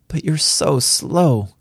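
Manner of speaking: put-on high, drawn-out little-girl tease; impish teasing. A narrator's reading. Daughter teasing her slow-learning father, impish. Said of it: "She looked at me impishly".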